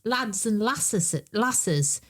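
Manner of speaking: slow "lasses" with short northern A; dad's Mansfield dialect. Retold or imitated. Daughter quoting her dad, "lasses" with short Mansfield A. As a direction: draw out "lads and lasses", short A. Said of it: "He was from Mansfield, my dad".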